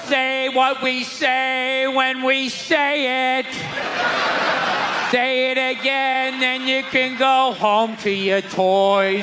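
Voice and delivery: slow, loud commanding preacher voice; slow, stern mock church leader. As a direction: drone out the church's orders slowly. Imitating church indoctrination.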